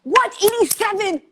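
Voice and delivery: high, rising disbelief; real astonishment; amazed they attended the same school. Real, not acted. Amazed at overlap.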